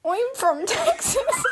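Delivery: put-on high, drawn-out Texan accent, breaking into laughter. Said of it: "Texan accent".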